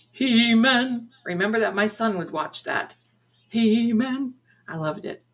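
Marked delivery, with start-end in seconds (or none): 0.1-1.1 drawn-out cartoon title call; lightly hammed-up "He-Man" call. Calls out the cartoon's catchphrase. 3.5-4.3 He-Man cartoon call. Repeats the cartoon's drawn-out call.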